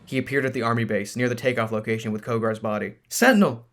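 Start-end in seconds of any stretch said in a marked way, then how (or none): 3.1-3.7 high calling shout. Acted. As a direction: call out to him from afar. Matrona calling out.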